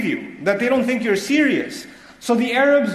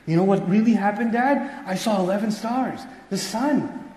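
put-on nervous child. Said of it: "But he's nervous".

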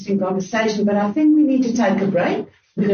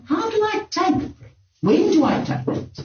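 anxious questioning; 10 semitones higher than usual. Retold or imitated. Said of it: "one of the things is to say".

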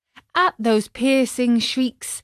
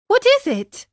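high-pitched anxious question; worried puppet squeal; alarmed; 4 dB louder than usual. A narrator's reading. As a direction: ask in sudden alarm, voice shooting up. Worried puppet awaits bad news.

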